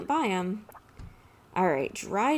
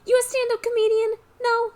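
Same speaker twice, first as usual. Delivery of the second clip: higher, louder sarcastic jab; mocking mob boss; 14 semitones higher, 5 dB louder than usual. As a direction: needle him like a scornful mobster. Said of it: "I'm Don Pianta".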